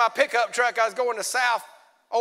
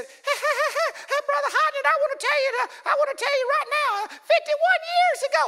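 put-on much higher, excited old church lady; old woman testifying. Preacher voicing an old woman's testimony to Brother Hodgson, high and excited. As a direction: crow it out like a happy little old woman. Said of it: "And she said".

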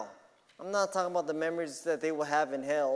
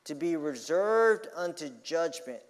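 slow, weighty sermon delivery; emphatic preaching; 3 semitones higher, 4 dB louder, slower than usual. Acted. Preacher warning the congregation about hell's dark flame, emphatic preaching. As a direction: draw out key words with pulpit force.

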